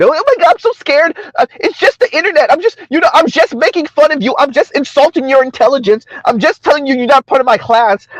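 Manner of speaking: high, put-on damsel voice, easing down; mocking imitation of feigned fright; mock scared. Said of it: "they feel so scared".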